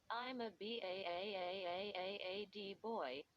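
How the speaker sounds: fast, stretched braying BAD in a dummy's voice; hee-haw out the long A of BAD. A narrator's reading. Dummy showing off to Brittany, fast braying exclaim. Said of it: "Mister Bad Boy exclaimed".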